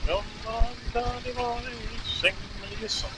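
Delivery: put-on lilting, half-hearted Irish accent, starting soft; attempted Irish accent. Rider trying fiddle-and-song lines, attempted Irish accent. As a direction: croon it gently in mock Irish. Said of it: "can't do an Irish accent".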